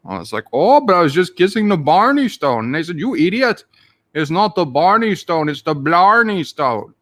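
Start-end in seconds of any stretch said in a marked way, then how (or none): 0.5-2.6 louder, hammed-up Irish protest; mock protest. Kisser explaining himself to the cops, mock Irish protest. 3.0-6.9 hammed-up exasperated Irish correction; mock scolding. Cops correcting the man at the stone, mock Irish scolding.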